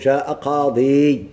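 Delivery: slow, deliberate example reading; drawn-out classroom demo of جاء قاضي; slow example phrase. Shown as a demonstration. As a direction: spell out جاء قاضي slowly as the model. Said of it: "مش تقول".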